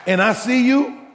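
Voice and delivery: loud, laughing demand for five dollars; mock confrontation. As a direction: call him out, half laughing, half shouting.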